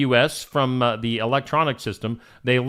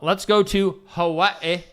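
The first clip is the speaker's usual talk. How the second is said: odd sing-song delivery; 4 semitones higher, slower than usual. Real, not acted. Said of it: "Why do I say it that way?".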